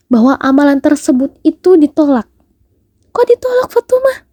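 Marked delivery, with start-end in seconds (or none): 3.1-4.2 mild questioner voice. Retold or imitated.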